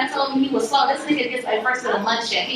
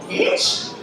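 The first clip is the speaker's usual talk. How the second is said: high, rising incredulous yelp; scandalized high-pitched query; shocked question; 14 semitones higher than usual. Retold or imitated. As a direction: shoot the word way up in disbelief. Shocked reaction to what she hears.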